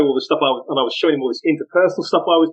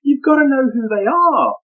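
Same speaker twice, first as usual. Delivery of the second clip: emphatic insistence; 11 semitones higher, slower than usual. Retold or imitated. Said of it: "I was like".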